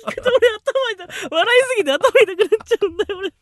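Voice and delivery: high, breathless from laughing; after laughing hard. Real, not acted. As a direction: gasp it out after a laughing fit.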